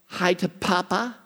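gentle mock coaxing of a toddler; mother prompting child. Grandson's mother prompting him on a video call, lightly imitated. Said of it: "Katie says".

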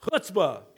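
Chutzpah with a throat-scraped ch; guttural cha. Shown as a demonstration. Preacher has the congregation repeat it, guttural Chutzpah. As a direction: start Chutzpah as if about to spit. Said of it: "try and spit on your neighbor".

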